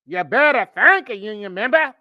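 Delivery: mock Southern preacher echo; mocking accent. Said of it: "A K A bullshit".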